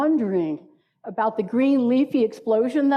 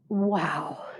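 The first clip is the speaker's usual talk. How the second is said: soft wow; 7 semitones lower, 6 dB quieter than usual. Shown as a demonstration. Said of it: "By just saying".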